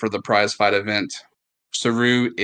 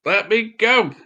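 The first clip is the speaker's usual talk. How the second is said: screaming; 8 semitones higher, 4 dB louder than usual. Acted. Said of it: "just screaming".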